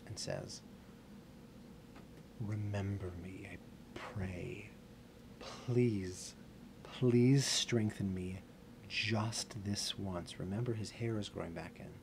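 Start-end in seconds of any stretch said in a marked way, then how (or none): 2.4-10.4 slow, drawn-out plea with pauses; solemn, halting entreaty; pleading prayer. Acted. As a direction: beg slowly, weighing every word. Samson's plea in retold prayer.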